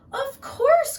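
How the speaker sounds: high, loud eager reply; loud bright-eyed "of course"; excited cry. Acted. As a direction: chirp it out like a thrilled little girl. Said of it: "cried Little Red".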